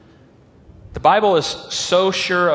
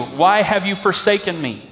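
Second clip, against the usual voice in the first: anguished plea; 4 semitones higher than usual. Retold or imitated. Pastor acting Jesus on the cross, raised anguished plea. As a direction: plead it upward like a wounded man. Crying out a second time.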